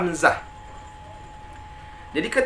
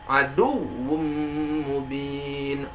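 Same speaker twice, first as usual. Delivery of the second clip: "Aduwwum" lifted on the waw, "mubin" level; stressed doubled waw; 3 semitones lower, much slower than usual. Shown as a demonstration. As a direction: lean into the w of "Aduwwum". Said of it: "jangan datar". ("Aduwwum" dengan waw dinaikkan)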